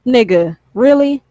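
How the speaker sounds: really? jumps up high in disbelief; incredulous really. Shown as a demonstration. Ranting at young viewers, really? in high disbelief. Mock reaction to dumb posts.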